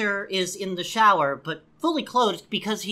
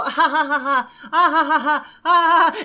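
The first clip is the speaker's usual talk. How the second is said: louder, higher fake cackling laugh; hammed-up laugh; 5 semitones higher, 6 dB louder than usual. Retelling the couple laughing in the shower, hammed-up. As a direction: overdo a fake shared laugh. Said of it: "then they go".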